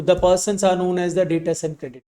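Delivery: slow, even, word by word; slow dictation. Shown as a demonstration. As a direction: dictate it for notes. Teacher dictates summary line. (धीमे से लिखवाना)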